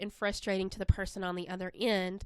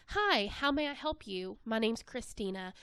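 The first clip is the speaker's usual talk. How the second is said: friendly greeting. Shown as a demonstration. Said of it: "you can answer the phone with a".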